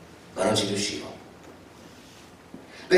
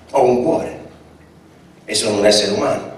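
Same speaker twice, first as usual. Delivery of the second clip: on the verge of tears; 3 dB louder than usual. Acted. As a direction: voice lifted and choked, holding back tears. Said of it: "si mise a piangere". (con la voce rotta dal pianto, appena trattenuta)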